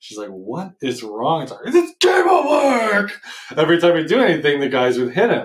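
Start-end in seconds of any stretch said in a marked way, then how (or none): 1.7-3.2 put-on frustrated yell, very high and drawn out. Retelling Elliot trying to figure out a game alone, imitating Elliot yelling in frustration. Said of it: "heard him yelling so fucking loud".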